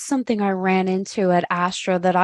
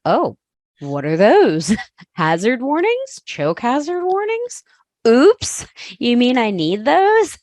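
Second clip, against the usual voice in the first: surprised; 4 semitones higher, 3 dB louder than usual. Retold or imitated. Retelling own surprise at warnings.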